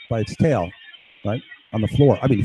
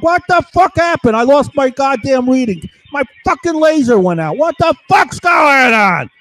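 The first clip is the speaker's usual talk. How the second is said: much higher, louder panicked yelling; mock yelling guy; 11 semitones higher, 5 dB louder than usual. Retelling the men yelling at each other, high panicked yell. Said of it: "they're yelling back and forth".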